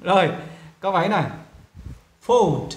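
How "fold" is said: Fold with a gliding oh; long O. Shown as a demonstration. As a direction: round the oh in Fold. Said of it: "vẫn là O". (đọc Fold với âm "oh")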